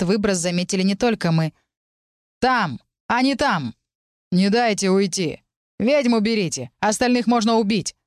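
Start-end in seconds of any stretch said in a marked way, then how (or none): 2.4-8.0 raised, higher battle shouts; hunters shouting. A narrator's reading. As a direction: bark orders to the pursuing band. Hunters shouting orders in pursuit. (громкие возбуждённые крики охотников)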